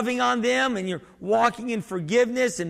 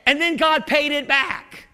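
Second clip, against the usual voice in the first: higher, louder, slower proclamation; preacher's shout; 6 semitones higher, 5 dB louder than usual. Acted. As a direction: shout it out to the church. Preacher building to climax.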